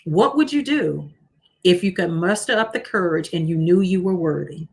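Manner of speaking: deliberate repeat of a question, pausing midway; slow reading. Real, not acted. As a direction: read it out slowly for someone writing it down. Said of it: "I'm gonna read them slowly".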